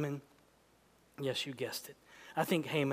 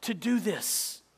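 slow angry demand; 5 semitones higher, slower than usual. Acted. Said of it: "Literally, the Hebrew reads".

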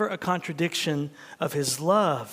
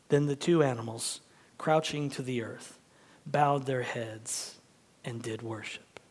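story reading. Acted. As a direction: read it like a treasured passage. Reads Wind in the Willows.

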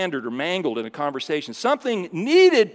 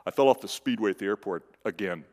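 dumb movie character; 8 semitones lower, 3 dB quieter, faster than usual. Retold or imitated. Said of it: "he says".

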